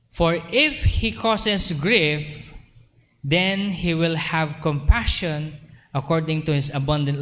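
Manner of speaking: measured, solemn Bible reading; scripture reading. Acted. Pastor reading scripture to the congregation, solemn and measured. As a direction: read the verse slowly and gravely.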